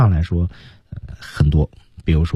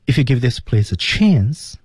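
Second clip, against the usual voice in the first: slow careful demo; 4 semitones higher, slower than usual. Shown as a demonstration. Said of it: "Maybe还说得特别重".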